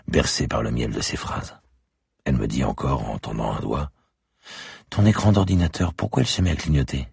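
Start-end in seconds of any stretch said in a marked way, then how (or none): 4.9-7.1 put-on high, louder little girl remembering; a child proudly sharing her secret. A narrator's reading. Little girl tells the policeman about her father's heartbeat, high and eager.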